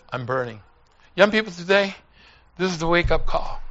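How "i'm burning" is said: low, soft, grave repeat; hushed echo. Retold or imitated. Preacher echoing dying neighbor's last words, hushed and low. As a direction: drop it low and quiet.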